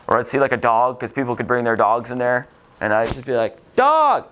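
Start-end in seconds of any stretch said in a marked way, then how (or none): 3.8-4.3 put-on a child's high, loud cry of "Dog!"; excited kid shout. Little boy spots a dog in the library, shouts with delight.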